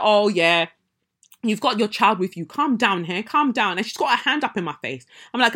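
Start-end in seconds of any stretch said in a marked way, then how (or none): 0.0-3.8 condescending manager. Retold or imitated. Manager telling her to calm.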